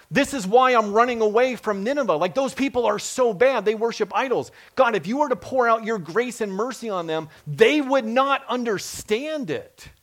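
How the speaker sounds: self-righteous Jonah. Retold or imitated. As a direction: Jonah pleading his case, a bit hammed-up.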